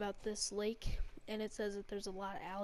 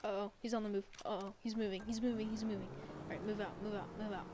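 urgent excited; 4 dB louder than usual. Real, not acted. Alligator moving, urgent orders.

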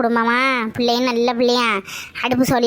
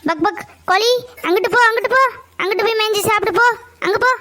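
higher, brisk shooing call; shooing a hen; 6 semitones higher than usual. Acted. Someone sending the hen off to peck elsewhere, shooing call. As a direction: chase the chickens off.

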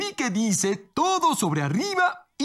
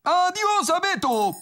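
slow, higher teasing goodbye; despedida burlona; 5 semitones higher than usual. Acted. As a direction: draw the farewell out in a playful sing-song. Teasing farewell as game command. (despedida juguetona, aguda y alargada)

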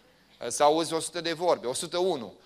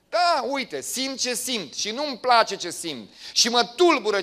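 loud, high impassioned preaching; raised sermon voice for Jeremiah; fervent preaching; 5 semitones higher, 6 dB louder than usual. Acted. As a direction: preach it hard as Jeremiah's vow.

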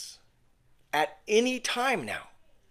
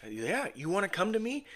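soft, slightly raised, inviting voice; beckoning invitation; 3 semitones higher, 7 dB quieter than usual. Acted. Jesus beckons people to come to him, soft inviting voice. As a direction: gently invite them to come over. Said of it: "he's beckoning us. He's calling us".

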